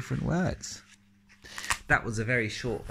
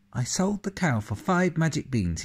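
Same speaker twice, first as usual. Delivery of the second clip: excited Jack; 8 semitones higher, 4 dB louder than usual. Acted. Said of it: "he said".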